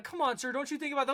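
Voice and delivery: pushy canvasser. Retold or imitated. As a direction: play the insistent street fundraiser. Pushy canvasser voiced in story.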